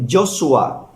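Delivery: Joshua said slowly as "yo-shu-a"; Aramaic name. Shown as a demonstration. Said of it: "en arameo se dice".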